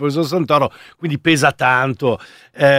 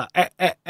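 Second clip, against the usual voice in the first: robot voice; 3 semitones higher, 4 dB quieter than usual. Pretend. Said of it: "ogni tanto si incarta mentre parla".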